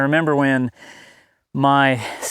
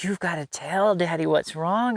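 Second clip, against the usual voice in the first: put-on encouraging a toddler; 3 semitones higher than usual. Dad urging his silent two-year-old to tell what's wrong, gently coaxing. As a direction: coax him gently to speak. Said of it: "I was trying to encourage him".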